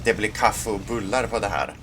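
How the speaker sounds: "Det blir kaffe och bullar på det här" said in natural Swedish; Swedish line. Shown as a demonstration. Swedish player quoting a tank commander, in Swedish. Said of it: "I'll say it in Swedish".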